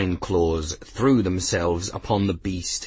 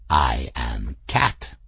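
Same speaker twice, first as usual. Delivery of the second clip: low, slow, regal declaration; smug cat; 8 semitones lower, slower than usual. Acted. Cat answering Bridget, low, slow and smug. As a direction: announce it as self-evident truth. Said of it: "Raoul said smugly".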